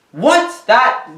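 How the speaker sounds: jolted by the twist; real stunned outrage; shocked disbelief. Real, not acted. Reacting to Rey's Palpatine reveal.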